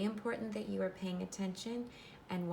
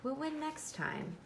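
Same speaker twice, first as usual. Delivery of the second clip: lightly voiced big brother, higher; cheering him up; 6 semitones higher than usual. Older brother Ronnie comforting Michael after the loss, reassuring. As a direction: encourage him, brightly upbeat. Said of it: "tried to cheer him up".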